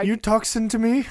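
mock New York accent. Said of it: "I'm walking here".

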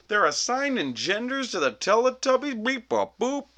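squeaky high-pitched mockery, loud; high mocking voice. Everyone mocking the senator.

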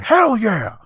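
mock cheer. The bees flying out to attack, high, loud mock cheer.

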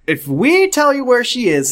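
high-pitched motherly figure; Kathleen's character voice. Acted. Redone as Kathleen, not George.

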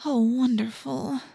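slow, dismayed moan. A narrator's reading. Cassie learning the cat is a tomcat, moaning. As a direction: groan it out in dismay. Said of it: "Cassie moaned".

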